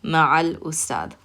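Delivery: ma'al ustad slowly, with the l clearly heard; teacher repeating ma'al ustad; linked, slow. Shown as a demonstration. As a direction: join into the lam: ma'al ustad. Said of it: "you're gonna hear that lam".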